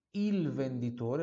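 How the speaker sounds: il with the L sounded; slow il venditore, articulating the L; clear Italian L. Shown as a demonstration. Teacher showing students the Italian sound, clear L in il. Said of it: "atenção para o som do L aqui".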